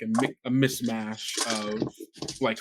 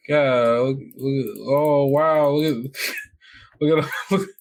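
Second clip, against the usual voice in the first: louder, higher hammed-up wonder, laughing through it; mock amazed kids; 4 semitones higher, 4 dB louder than usual. Kids discovering the wasteland, hammed-up amazement with laughs. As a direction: gawk at the sand like a wide-eyed kid. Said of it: "and then be like".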